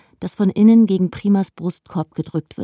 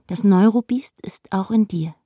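breathless whispered warning; eerie whisper. Acted. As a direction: whisper it like a creeping threat. Menacing inner voice warning.

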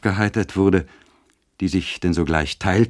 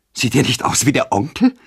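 hoch und laut, spöttisch ausgerufen; unbarmherziger Spott; 7 semitones higher, 4 dB louder than usual. A narrator's reading. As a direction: boshaft über den Onkel lachen. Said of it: "rief sie unbarmherzig". (höher und lauter, spöttisch rufend)

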